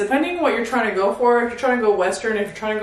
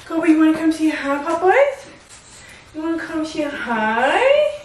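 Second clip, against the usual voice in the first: calling the dog; 6 semitones higher than usual. Real, not acted. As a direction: coax the dog over in a high, sing-song call.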